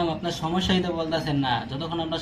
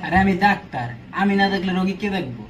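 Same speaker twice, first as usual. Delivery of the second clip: raised, exasperated protest; mild yelling. Acted. Doctor defending seeing other patients, mild exasperated yelling. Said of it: "চিল্লাইতেছো আবার".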